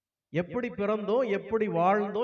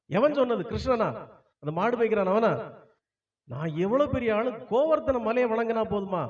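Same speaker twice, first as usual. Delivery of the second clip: angry Indra. Acted. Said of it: "இந்திரனுக்கு வந்ததே கோபம்".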